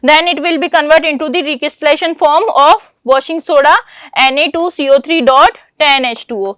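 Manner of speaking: slow, deliberate exam-paper read; reading the question. Acted. Teacher reading the question paper to the class, slow and deliberate. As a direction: read each word out slowly for students to copy. Dictates answer in English.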